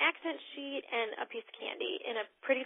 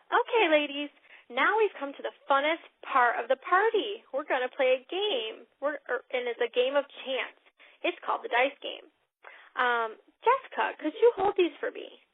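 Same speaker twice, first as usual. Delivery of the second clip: lightly voiced host, louder and upbeat; party host script; 3 semitones higher, 5 dB louder than usual. Shown as a demonstration. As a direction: sell the game to the guests. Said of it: "you're gonna say".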